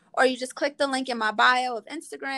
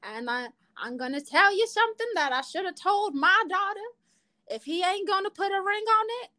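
higher-pitched grandma voice; Abuelita old lady voice; 8 semitones higher than usual. Acted. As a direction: play a sassy old granny giving advice. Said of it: "let me put in my old lady voice now".

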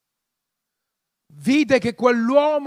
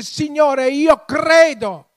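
raised, drawn-out mock cry of faith; retold tearful cry; 4 semitones higher, 6 dB louder, much slower than usual. Preacher voicing the father crying to the Lord, impassioned retold cry. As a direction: imitate a desperate cry, higher and slow. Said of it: "gridò con lacrime, piangendo".

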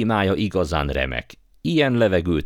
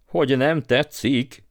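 higher, drawn-out disbelieving echo; indignant outburst; 9 semitones higher than usual. A narrator's reading. Uncle bursting out at being asked, indignant. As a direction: burst out, stretching the question. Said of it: "Tört ki Andrew bácsiból".

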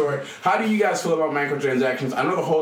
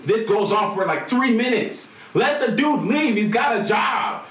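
exasperated shout; 6 semitones higher than usual. Real, not acted. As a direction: let the dude leave, real exasperation. Exasperated rant about the cutscene.

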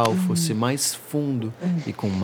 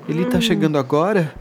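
shaky, breathless and higher, fast; a frightened, trembling question; 6 semitones higher, 5 dB louder, faster than usual. A narrator's reading. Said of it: "A voz trêmula mal saía".

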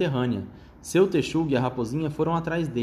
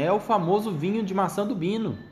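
little fox voice; 6 semitones higher than usual. Acted. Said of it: "sussurrou a raposinha".

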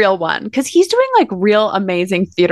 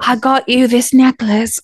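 put-on Northern British accent; 3 semitones higher than usual. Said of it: "I don't know what accent I'm doing".

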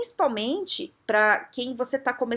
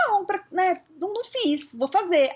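higher, hesitant stammered excuse; fumbling excuse; 9 semitones higher than usual. Retold or imitated. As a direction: stumble through the excuse. Carol se enrolando na resposta. (Carol se enrolando, voz mais aguda)

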